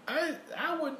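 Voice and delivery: giggling refusal; laughing. Real, not acted. Friend laughing while refusing a singer.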